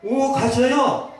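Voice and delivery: drawn out like a stiff churchgoer; mock polite greeting. Pastor mocking a member's empty small talk, slow and high.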